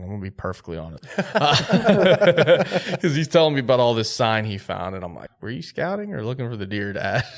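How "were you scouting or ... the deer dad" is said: teasing question through a laugh; a laughing jab at dad; laughing tease. Retold or imitated. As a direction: rib your dad while laughing. Teasing dad about scouting.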